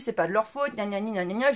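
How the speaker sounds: voix un peu plus basse qui singe une excuse; imitation moqueuse. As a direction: se moquer de l'excuse en la rabâchant. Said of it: "elle me dit". (léger ton moqueur, gna gna gna)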